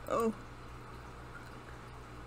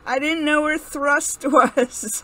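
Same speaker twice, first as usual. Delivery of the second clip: laughing dismay; 5 semitones higher, 10 dB louder, slower than usual. Real, not acted. Misses the move, laughs.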